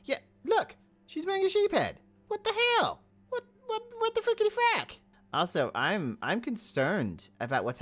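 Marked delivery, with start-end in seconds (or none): 0.0-5.0 high, loud shocked shriek; a sudden high squeal of shock. Real, not acted. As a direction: squeal in disbelief at the sight. Shocked at Belle's sheep head.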